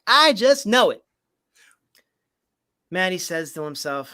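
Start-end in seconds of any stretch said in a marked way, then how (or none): 0.1-1.0 whispered aside; sly whisper. Acted. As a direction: breathe it out like a secret plan. Cassie's sly aside while scheming.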